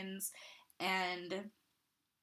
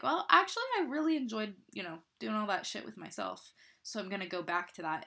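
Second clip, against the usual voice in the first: mock rationalising; 3 dB louder, faster than usual. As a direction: talk yourself into it, half joking. Quoting self veering off.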